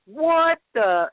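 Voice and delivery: retold astonishment. Reliving her reaction to the name, startled. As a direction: act out being taken aback.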